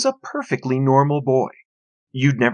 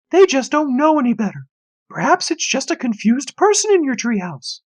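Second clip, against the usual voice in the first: patronizing mother; 13 semitones higher, 4 dB louder than usual. A narrator's reading. Mother lectures son.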